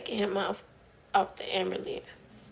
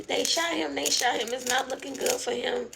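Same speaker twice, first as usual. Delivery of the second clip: frantic; 3 semitones higher than usual. Retold or imitated. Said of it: "And just frantic".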